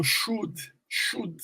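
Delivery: "should" with a short U. Shown as a demonstration. Teacher showing students the short U, "should" said with it. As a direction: say "should" with a brief, short oo vowel. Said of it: "esse U é um U curto".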